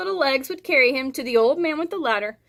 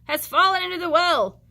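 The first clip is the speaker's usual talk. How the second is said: put-on gasping boy; 6 semitones higher, 5 dB louder than usual. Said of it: "he gasped".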